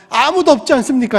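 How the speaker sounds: 높고 큰 소리로 낙심을 호소; 절망을 따지듯 크게 내뱉어라; 좌절한 항변. Acted. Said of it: "낙심하고 절망 가운데 좌절하면서". (좌절 속에 높여 외치는 항변)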